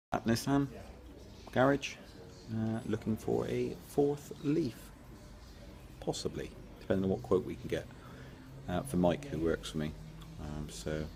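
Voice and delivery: talking while chewing gum; words round a piece of gum. Real, not acted. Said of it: "I gotta stop chewing gum".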